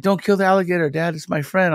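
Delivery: put-on high, pleading little girl's voice; pleading daughter. Dad voicing his daughter begging him to spare the alligator, high and pleading. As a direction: beg like a kid protecting a pet.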